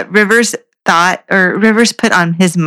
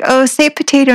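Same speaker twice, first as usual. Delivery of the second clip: eager fan; 6 semitones higher than usual. Retold or imitated. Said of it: "they're like".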